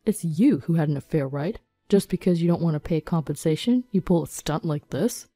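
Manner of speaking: lightly voiced man ranting in indignation; angry rant. Husband phones his wife about policemen at their house, indignant rant. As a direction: rant accusingly, voice a touch put-on. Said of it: "Alden ranted over the phone".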